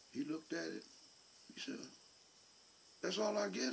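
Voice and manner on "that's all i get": put-on higher-pitched young boy begging his daddy; boy pleading for his promised allowance; son's voice. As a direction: pitch up into a kid reminding dad of a promise. Son's voice quoted by father.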